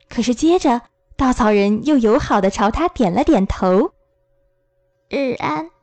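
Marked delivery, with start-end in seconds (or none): 5.1-5.7 沙哑地轻声问候; 像干草摩擦一样哑着嗓子说; 非常沙哑. A narrator's reading. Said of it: "稻草人用非常沙哑的声音说". (沙哑的稻草人嗓音)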